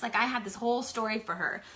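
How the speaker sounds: ordinary talk, nothing marked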